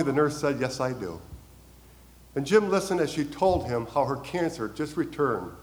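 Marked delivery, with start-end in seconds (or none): 0.6-1.2 softer, calm and steady; calm reply. Retold or imitated. Nurse calmly answering upset Jim, soft and steady. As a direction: quietly settle it, no push. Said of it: "And then very calmly".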